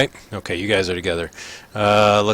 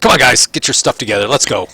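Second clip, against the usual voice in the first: guard rousing prisoners, raised voice; calling out orders; 3 semitones higher, 4 dB louder than usual. Acted. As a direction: round them up briskly and loudly.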